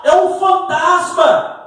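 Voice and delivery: high, drawn-out cry of alarm. Acted. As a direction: shout it out as if spotting a ghost. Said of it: "começaram a gritar".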